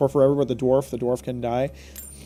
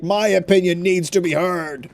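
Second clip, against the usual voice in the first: self-important mimicry; 3 semitones higher than usual. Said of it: "he's really seriously being like".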